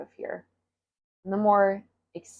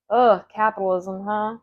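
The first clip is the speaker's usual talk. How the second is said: casual outward grumble; 6 dB louder than usual. Retold or imitated. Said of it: "I'll say things like".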